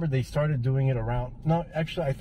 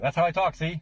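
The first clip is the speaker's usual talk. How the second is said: 1930s gangster voice; 5 semitones higher than usual. Retold or imitated. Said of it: "talking like a nineteen thirties gangster".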